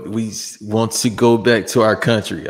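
a somewhat German accent, lightly attempted; half-hearted attempt at a German accent. Co-host voicing wrestlers who want to go home, rough German accent. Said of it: "do a somewhat German accent".

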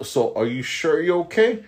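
a hint of a ditzy girl fussing; lightly voiced ditzy girl. Guard imitating the prissy clinic girl, mock-sweet ditzy question. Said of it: "she was like".

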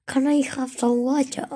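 put-on British accent asking for water; mock British accent. Boy showing his favourite British accent asking for water. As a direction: ask for water like a hammed-up Brit. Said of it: "Ah, el británico".

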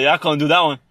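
lightly hammed-up Australian quote; mock Australian accent.

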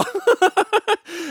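quick real high laugh. Real, not acted. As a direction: laugh at your own aside. Laughing about Bikkuri Donkey.

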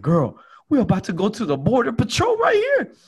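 high, loud nervous alarm; panicked warning. Retold or imitated. To his friend at the border checkpoint, panicked warning. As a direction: warn your friend in a rising panic.

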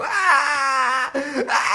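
high, loud mock crying wail; loud fake sobbing cry over the dead bird. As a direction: ham up a child's howl of grief. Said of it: "E eu".

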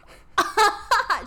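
high, loud mock cackle; imitated hysterical laugh. Friend in elevator answering with a laugh, mock hysterical. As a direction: act out a hysterical laughing fit. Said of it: "laughing so hysterically".

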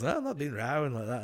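imitated, imperfect Irish accent. Friend acting out a film's denial, in a shaky Irish accent. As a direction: try an Irish lilt without quite landing it. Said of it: "that's not good Irish accent".

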